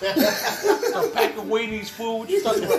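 mock indignant friend. Voicing friend's retort.

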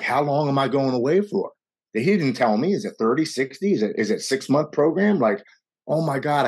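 racing worry about rehab; a touch of panic; panicking. Retold or imitated. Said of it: "I'm panicking".

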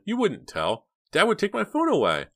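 high-pitched, worried protest; distressed sister begging; alarmed pleading. Acted. Dina fears losing her phone.

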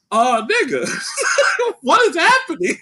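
high laughing exclamation; laughing at the scene; laughing disbelief. Retold or imitated. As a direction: crack up while asking.

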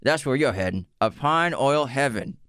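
high, fast Denzel, cigarette in mouth. Acted. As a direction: talk round an imaginary cigarette. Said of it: "I gotta pretend like there's a cigarette in my mouth".

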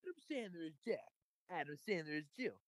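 movie trailer voice. Retold or imitated. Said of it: "movie trailer voice".

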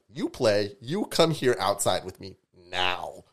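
loud, retold order, slowing to the end; firm, drawn-out mock command; stern scolding. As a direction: lay down the law like a babysitter. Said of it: "I had to basically scold him".

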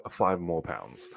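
put-on slow British accent; playful, slow British pricing. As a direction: draw it out in mock British. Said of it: "this is British".

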